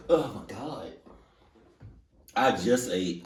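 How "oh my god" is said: hiccup gasp. Real, not acted. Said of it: "I got the hiccups".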